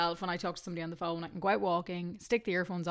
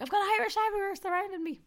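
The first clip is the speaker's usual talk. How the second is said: imitating Derek; 13 semitones higher, faster than usual. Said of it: "he was like".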